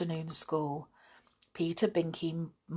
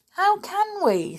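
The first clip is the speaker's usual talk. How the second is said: despairing; 4 dB louder, slower than usual. Acted. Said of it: "said Winks".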